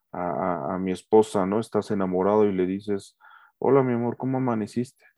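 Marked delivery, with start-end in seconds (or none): 3.6-5.0 loving tone. Shown as a demonstration. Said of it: "Mi tono de voz es que suave, con amor, con cariño".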